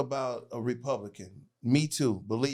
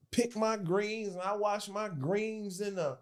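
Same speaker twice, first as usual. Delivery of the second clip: slow, higher mock Black American drawl; mock Black American accent; 5 semitones higher, slower than usual. Mocking a politician before a Black crowd, put-on Black American accent. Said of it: "you can hear her voice changing".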